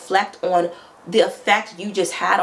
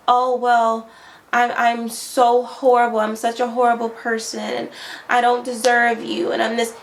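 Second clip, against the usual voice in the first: fake crying; 3 semitones higher than usual. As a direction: put on a sobbing guilt act to soften him. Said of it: "you start crying".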